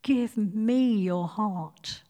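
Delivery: slow, tender plea; gentle pleading. Acted. Preacher voicing God pleading with us, slow and tender. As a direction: draw each word out gently. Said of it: "pleading with us".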